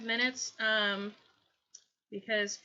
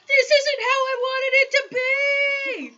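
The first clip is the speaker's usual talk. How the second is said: loud, high, slow crying shout; despairing wail; 14 semitones higher, 10 dB louder than usual. Retold or imitated. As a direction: wail it like everything's ruined. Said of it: "I'm like".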